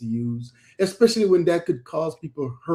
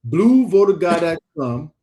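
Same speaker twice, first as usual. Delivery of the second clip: louder DC-accented slogan; 4 dB louder than usual. Shown as a demonstration. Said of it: "in my D C voice".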